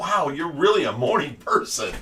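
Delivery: normal talking voice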